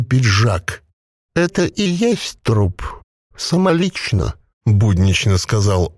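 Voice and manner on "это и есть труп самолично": a possessed corpse bubbling out its words; gurgling voice. A narrator's reading. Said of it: "Звук его голоса напоминал бульканье маслянистого варева".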